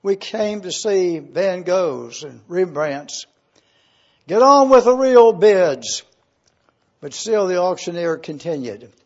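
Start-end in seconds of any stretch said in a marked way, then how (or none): 0.0-6.0 loud, indignant protest that builds to a shout; angry bidder. Acted. Impatient bidder protests the son's painting, angry shout. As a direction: complain hotly to the auctioneer. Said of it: "Another voice angrily".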